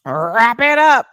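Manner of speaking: loud, high, stretched-out holler; drawn-out call. Real, not acted. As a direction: holler it out slowly to the room. Calls out to the stream.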